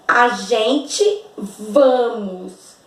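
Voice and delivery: slow, stretched a gente vamos held up as wrong; mock drawn-out error. Shown as a demonstration. Teacher holding up the students' error, slow and stretched. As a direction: drag out a gente vamos like something odd. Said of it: "não combina".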